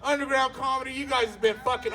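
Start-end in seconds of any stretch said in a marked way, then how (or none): none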